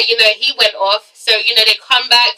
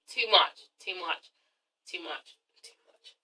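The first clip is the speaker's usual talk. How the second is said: each repeat softer and lower until almost gone; fading repetition; 6 semitones lower, 17 dB quieter, slower than usual. Real, not acted. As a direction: let it fade away, word by word. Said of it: "fading repetition".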